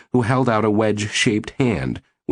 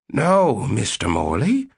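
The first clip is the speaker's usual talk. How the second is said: put-on deep elderly voice; 4 semitones higher, slower than usual. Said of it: "in her deep, elderly voice".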